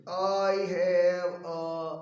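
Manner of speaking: very slow, drawn-out words; hesitant attempt at inaudible. Shy Pia starts telling her class, slow and hesitant. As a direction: draw it out haltingly, only mildly held back. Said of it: "ન સંભળાય તેવી રીતે ધીમેથી બોલે છે".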